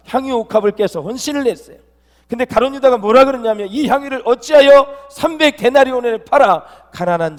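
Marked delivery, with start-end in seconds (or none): 3.7-7.4 loud, high mock rebuke; acted scolding. Preacher quotes Judas rebuking Mary over the perfume, acted scolding. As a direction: quote an indignant telling-off, voice raised. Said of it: "막 야단을 친 사람이 가룟 유다예요".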